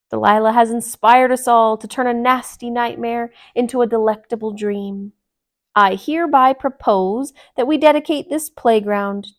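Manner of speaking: loud, grand after-dinner orator; a proud toast to honour Delilah; loud, pompous speechmaking; pompous speech. Acted.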